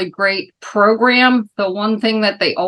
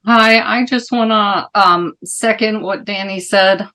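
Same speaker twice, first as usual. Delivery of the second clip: muffled through a mask; talking behind a face mask; through a plague doctor mask; 3 semitones higher, 4 dB louder than usual. Real, not acted. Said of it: "Can you hear me okay with the mask?".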